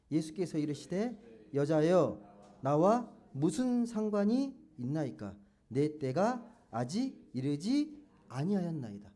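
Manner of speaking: slow, measured verse recitation; scripture reading aloud. Real, not acted. Preacher leads congregation reading Bible verse aloud, slow recitation. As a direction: read the verse out slowly and deliberately. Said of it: "사 절 한번 읽어보겠습니다".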